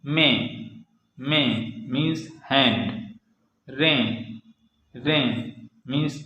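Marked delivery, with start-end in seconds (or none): 0.1-1.5 में ending on a nasal ए; French nasal IN. Shown as a demonstration. Teacher modelling an example word twice, nasal ए in में. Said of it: "ए जैसा होता है". 3.7-5.3 रें ending on a nasal ए; French nasal IN. Shown as a demonstration. Teacher modelling an example word twice, nasal ए in रें. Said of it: "ए जैसा होता है".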